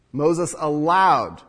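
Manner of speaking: slow, drawn-out allowed. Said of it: "do you notice the change of word".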